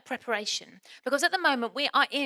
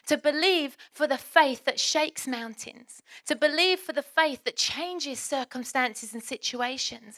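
preaching build; 2 semitones higher, slower than usual. Acted. Preacher building emphatic appeal.

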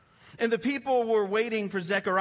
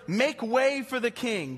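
herald's call; 5 semitones higher, 3 dB louder, slower than usual. Acted. Herald announcing the king.

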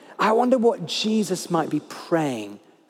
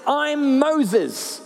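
higher, lightly voiced parrot; 8 semitones higher than usual. Parrot answers the burglar, lightly voiced high parrot. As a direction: chirp it like a smug parrot. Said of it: "The parrot says".

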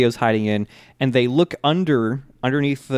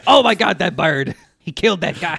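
put-on Brooklyn accent; 5 semitones higher than usual. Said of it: "Iggy's internal monologue".

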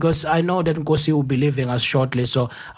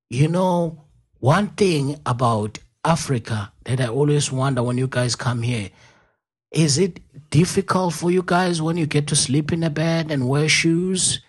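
Georgia southern twang; 4 semitones higher than usual. Retold or imitated. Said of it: "this was a guy with the southern accent".

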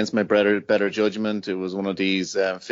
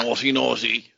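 creepy voice; 2 semitones higher than usual. Acted. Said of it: "That was a bit of a creepy voice".

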